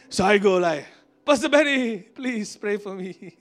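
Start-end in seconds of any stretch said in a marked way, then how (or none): 1.2-3.3 hammed-up begging, dragging out the last words; mock pleading. Begging his idol for prayer.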